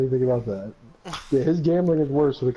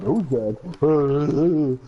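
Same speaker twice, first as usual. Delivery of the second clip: mocking imitation; 3 semitones lower, much slower than usual. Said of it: "if it was you, they're like".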